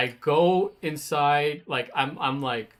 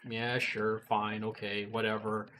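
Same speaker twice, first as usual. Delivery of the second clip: low, soft, grudging agreement; resigned retold brush-off; calmed down, giving in; 5 semitones lower, 7 dB quieter than usual. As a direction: give in quietly, dropping pitch and volume. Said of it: "he calms me down".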